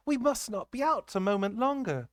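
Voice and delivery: high, urgent nurse's plea; anxious nurse. A narrator's reading. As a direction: hurry the child along, worried. Nurse urging the child home.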